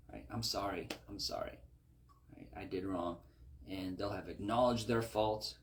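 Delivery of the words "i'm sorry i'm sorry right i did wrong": softer, half-whispered sorry; meek apology. Retold or imitated. Wrongdoer apologizing to the one he hurt, meekly. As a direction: mumble it like a guilty offender.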